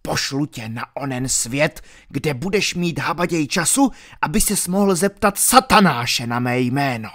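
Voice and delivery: sneering death threat; a hint of a boasting thug; villain threatening to kill the friar; menacing villain.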